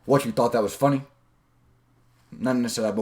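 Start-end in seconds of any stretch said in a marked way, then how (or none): 0.1-1.0 mild alpha challenge; breaking rapport. Shown as a demonstration. Coach breaking banter among friends, mild breaking-rapport challenge. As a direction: challenge them lightly after the joke. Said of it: "I break a little bit".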